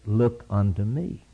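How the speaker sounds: "Look unto me" drawn out slowly; slow, deliberate quote. Shown as a demonstration. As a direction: let each word of "Look unto me" land. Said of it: "Can you understand those three words?".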